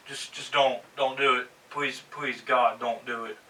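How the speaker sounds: soft, despairing please; hushed desperate plea; quiet pleading. Real, not acted. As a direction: beg quietly under your breath. Pleading with WWE not to.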